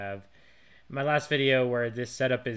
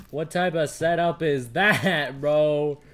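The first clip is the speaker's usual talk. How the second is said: surprised; 3 semitones higher, 9 dB louder, slower than usual. Real, not acted. Excited surprise at loot.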